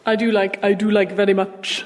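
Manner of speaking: lightly put-on Indian accent; a faint Indian accent slipping into the words; barely-there Indian accent, half-unconscious. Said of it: "Why am I doing an Indian accent?".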